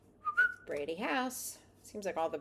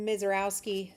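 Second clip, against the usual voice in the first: talking through hiccups; hiccupy card callout; 3 semitones higher, 5 dB louder than usual. Real, not acted. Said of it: "I keep getting the hiccups".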